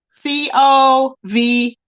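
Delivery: letters spelled slowly, one by one. Shown as a demonstration. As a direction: spell each letter deliberately. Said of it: "that's all I'm gonna say".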